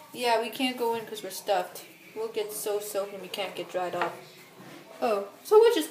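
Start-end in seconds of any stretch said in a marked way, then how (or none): 0.1-4.1 stuffed toy voice. Pretend. Stuffed toys voiced softly.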